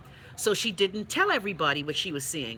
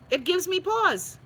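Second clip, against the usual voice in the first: slow, higher, drawn-out gives me pause; emphatic pause; 10 semitones higher, slower than usual. Real, not acted. Weighing the week's incidents, slow emphatic words. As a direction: stretch it out for weight. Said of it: "give me pause".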